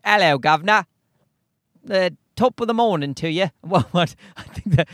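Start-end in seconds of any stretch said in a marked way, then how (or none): 0.0-0.8 hammed-up English greeting accent; mock a cheery English accent. Comedian mocking how people in England speak, hammed-up English accent. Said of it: "people in England also speak English, but they're like". 1.8-3.5 bad mock Irish accent; Irish-sounding accent. Comedian botching an English greeting, mock Irish accent. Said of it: "is that Irish?".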